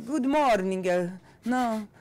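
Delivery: English with a put-on Italian accent; hammy Italian-accented English; a singer's Italian accent. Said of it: "com aquele sotaque italiano".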